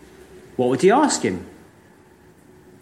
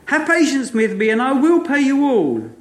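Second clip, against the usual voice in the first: raised, lightly pleading plea; mild begging; 8 semitones higher than usual. Acted. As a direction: beg for time, understated. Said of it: "fell down at his feet and begged him".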